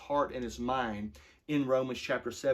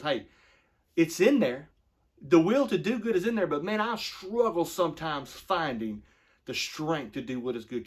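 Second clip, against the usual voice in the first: higher and louder, pleading; earnest paraphrase; 4 semitones higher, 5 dB louder than usual. Retold or imitated. Pastor voicing Paul to the congregation, higher and louder.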